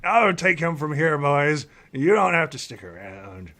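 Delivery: put-on cranky old elf. Old elf dismisses guards.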